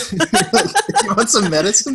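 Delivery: creepy offering voice, slow and high, laughing; predatory menace. Pretend. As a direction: lure them in like a creepy old man. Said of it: "I just sound like a creepy old man".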